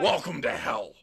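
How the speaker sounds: loud, booming announcer call; devil Joker announcer voice. Acted. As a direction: shout it like a hellish ring announcer. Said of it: "weird mix of the devil and Heath Ledger".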